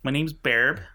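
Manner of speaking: put-on Midwest Wisconsin accent, chirpy; cheery Wisconsin lady. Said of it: "Wisconsin accent".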